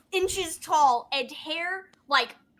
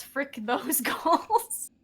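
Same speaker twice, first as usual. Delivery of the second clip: mock motto; much slower than usual. Shown as a demonstration. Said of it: "you just gotta say one thing".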